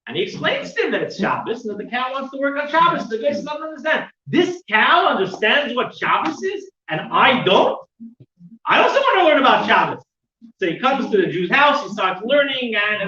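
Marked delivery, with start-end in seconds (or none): 3.4-10.0 higher, louder voice full of wonder; amazed. Retold or imitated. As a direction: marvel that the cow knows more. Amazed buyer wants to learn.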